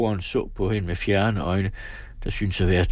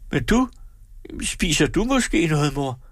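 put-on higher girl's voice, pushing back; defiant girl; 10 semitones higher than usual. A narrator's reading. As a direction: throw the question back at mother. Daughter protests back at mother.

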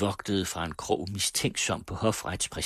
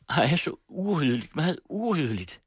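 fretful hostess; 9 semitones higher, 3 dB louder than usual. A narrator's reading. Hostess frets over the table.

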